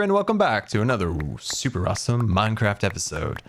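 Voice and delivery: showy episode welcome; catchphrase patter; old show intro. Shown as a demonstration. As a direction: roll out the intro with relish. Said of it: "That's what I used to say".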